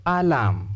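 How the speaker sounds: "alarm" slow, with a long second vowel; "alarm" said carefully, long AH at the end; careful articulation. Shown as a demonstration. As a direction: stretch the second syllable of "alarm". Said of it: "you articulate this word as".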